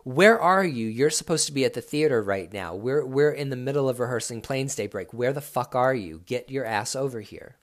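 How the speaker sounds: a boss getting annoyed, half-acted; irritated Todd. Todd on voicemail demanding where he is, mild mock annoyance. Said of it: "The second message sounded like".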